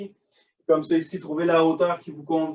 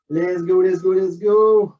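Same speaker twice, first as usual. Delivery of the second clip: coach shouting; 3 semitones higher, 6 dB louder than usual. Real, not acted. Coach calling out during exercise.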